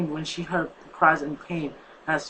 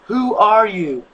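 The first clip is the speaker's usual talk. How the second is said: louder, higher, slow eerie call; strange female voice calling; 5 semitones higher, 9 dB louder, much slower than usual. Acted. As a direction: call out from the dark. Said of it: "a strange female voice called".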